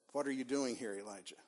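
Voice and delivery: God's question dropped soft, fading to almost nothing; gentle whisper. Acted. God gently asks Elijah at the cave mouth, very soft. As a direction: speak it like a voice barely heard. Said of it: "A gentle whisper".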